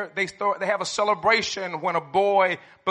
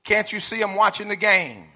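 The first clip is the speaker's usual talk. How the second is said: gruff dad voice; 6 dB louder than usual. Retold or imitated. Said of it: "here's one quote from a dad".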